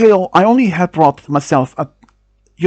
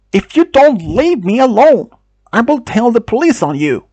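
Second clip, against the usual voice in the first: threatening; 6 semitones higher than usual. Retold or imitated. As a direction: warn him off firmly. Threatening the creep.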